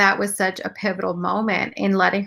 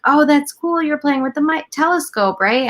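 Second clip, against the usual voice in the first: higher-pitched, chirpy parent on a video call; retold upbeat praise for a little one; cheery parent talk; 7 semitones higher than usual. Mother to younger daughter on FaceTime, cheery and higher.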